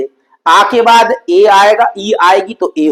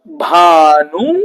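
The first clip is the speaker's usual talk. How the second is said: split into parts; 6 semitones lower, much slower than usual. Shown as a demonstration. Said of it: "भानु दया में बीच में देखो बड़ा ऊ".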